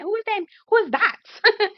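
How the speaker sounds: high, stretched-out squeal; thrilled, high-pitched swooning; excited admiration. Retold or imitated. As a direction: blurt it high, dragging out the last one. Replays excitement over handsome man.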